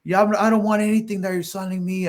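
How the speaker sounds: high-pitched, mildly acted irritation; mock tirade at a salesman; retold angry refusal. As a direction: imitate a fed-up homeowner rebuffing a salesman. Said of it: "he just started going at me".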